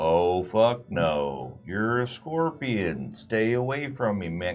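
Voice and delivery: slow-talking turtle character. Telling the scorpion and turtle fable, the turtle refuses the scorpion, slow turtle voice. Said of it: "I imagine turtles speak slowly".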